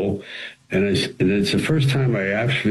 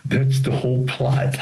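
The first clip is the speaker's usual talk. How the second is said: smug told-you-so; 6 semitones higher, slower than usual. Retold or imitated. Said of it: "I go".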